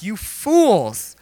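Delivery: indignant Hulk Jesus, acted; mock-angry rebuke. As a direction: hurl a put-on rebuke. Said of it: "You know, really mad".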